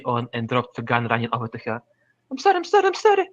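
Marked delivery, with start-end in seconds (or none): 2.3-3.3 high, pleading and close to tears; tearful apology. Acted. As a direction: beg forgiveness through welling tears. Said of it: "tears welling up in my eyes".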